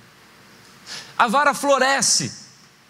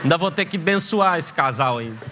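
grumbling prayer; 7 semitones lower than usual. Acted. Jealous grumbling prayer to God.

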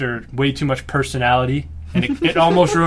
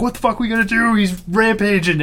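panicked characters; 8 semitones higher than usual. Retold or imitated. Friends recapping a movie scene, mock panicked high voice. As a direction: play the cornered movie heroes in alarm. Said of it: "they're like".

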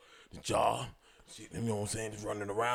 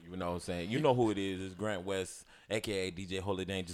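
1 impression of Mister Fly; 3 semitones lower, 6 dB quieter than usual. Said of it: "He sound just like that nigga".

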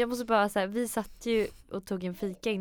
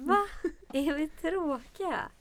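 drawn-out, higher, incredulous question; taken aback; 8 semitones higher, slower than usual. Real, not acted. Parent reacting to the child calling them boring, taken aback. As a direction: stretch it out in disbelief.

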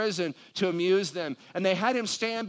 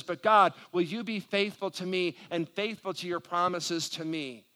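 urgent, raised-pitch plea to God; praying aloud; 3 semitones higher, 3 dB louder than usual. Pretend. Preacher shows the congregation how to ask God, pleading prayer. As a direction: plead with rising force, as a preacher modelling a prayer. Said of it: "ask God".

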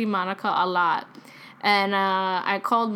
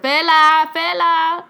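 high, loud imitated summons; urgent name-call, pitched up; abuela calling out; 6 semitones higher, 6 dB louder, slower than usual. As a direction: imitate a grandmother calling down the phone. Abuela grabs phone, calls name.

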